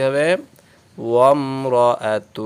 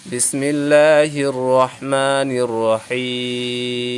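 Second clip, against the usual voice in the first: slow recitation; much slower than usual. Shown as a demonstration. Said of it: "teacher begins Quran recitation".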